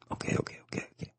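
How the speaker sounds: breathy unvoiced okays, very soft; whispered imitation of Rick's okay. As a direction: mimic a brush-off under the breath. Rick's dismissive reply, retold.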